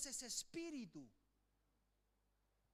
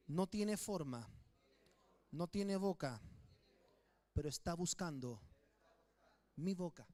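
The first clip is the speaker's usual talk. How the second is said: emphatic preaching; 5 semitones lower, 5 dB louder than usual. Acted. Preacher leading congregation repetition.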